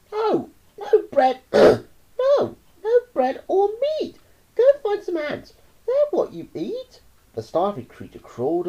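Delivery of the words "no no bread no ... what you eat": put-on high, loud boy's shout. Roy shouts at the starving anteater, bratty. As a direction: yell it down as a bratty boy. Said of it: "Roy shouted".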